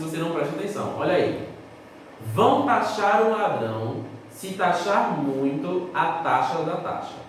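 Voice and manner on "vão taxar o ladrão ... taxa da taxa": taxar and taxa said slowly and clearly for note-taking; slow dictation. Shown as a demonstration. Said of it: "Vou repetir". (ditado lento)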